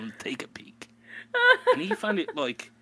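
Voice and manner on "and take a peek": a whispered New York aside; hushed mock New Yorker. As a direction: drop to a conspiratorial whisper.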